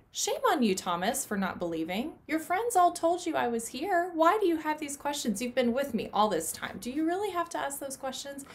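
what Jesus did not say to Thomas, in a mock scold. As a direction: pretend to scold him for doubting. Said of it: "he didn't say".

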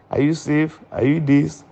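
imitating worried callers.

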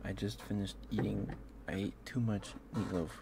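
breathless after a big meal; winded, talking through it; out of breath. Real, not acted. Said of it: "if I sound out of breath".

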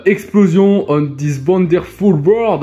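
slow English title with a heavy French accent. Real, not acted. Vlogger reading an anime title aloud, in heavy French-accented English. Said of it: "Oh putain, mon accent".

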